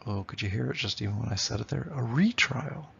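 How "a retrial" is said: RE-trial, first syllable of "retrial" lifted; "retrial" with a strong opening beat; trochee stress. Shown as a demonstration. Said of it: "That's a trochee".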